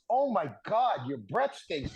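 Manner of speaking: mildly disgusted quote, pitch falling away; retold disgust. Player retelling a rival's reaction in a scrum, mildly disgusted. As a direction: act a touch of revulsion, dropping at the end. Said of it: "he was so disgusted".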